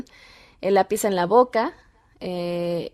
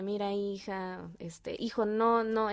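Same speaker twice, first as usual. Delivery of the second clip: gentle, softer parental tone; affectionate; 8 dB quieter, slower than usual. Shown as a demonstration. Parent talking at the child's height, affectionate. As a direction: speak tenderly down at a child's level. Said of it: "de una forma cariñosa".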